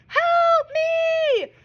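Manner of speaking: high desperate cry for help; waitress begging for help, frantic; screamed plea. A narrator's reading. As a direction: wail it out, panicked. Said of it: "screamed Rita".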